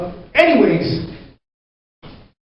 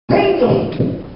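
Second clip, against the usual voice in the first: frustrated exclamation; 14 semitones higher than usual. Real, not acted. Joke flops with crowd.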